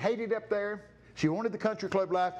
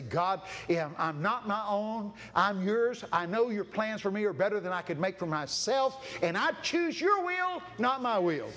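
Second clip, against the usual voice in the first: prayer. Acted. Preacher praying over the congregation, earnest. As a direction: pray it sincerely.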